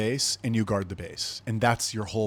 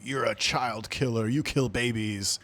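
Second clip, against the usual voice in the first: accusing critics; slower than usual. Retold or imitated. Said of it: "They'll be like".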